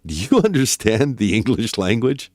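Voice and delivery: breaking into a laugh mid-question. Real, not acted. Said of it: "You're laughing".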